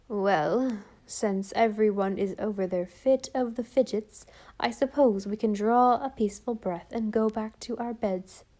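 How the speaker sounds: lightly voiced sour old aunt, grudgingly relieved; a hint of tart, grudging relief; shrewish relief. Aunt grumbling everyone back to bed, mildly shrewish. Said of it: "some shrewish relief in her tone".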